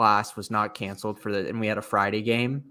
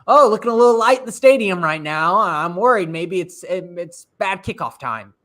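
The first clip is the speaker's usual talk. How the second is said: mock worried media people; 7 semitones higher, 7 dB louder than usual. Mocking media folk who photograph the stadium before kickoff, high mock worry. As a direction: imitate fretting onlookers with a raised, slowing voice. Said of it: "some people who love taking pictures".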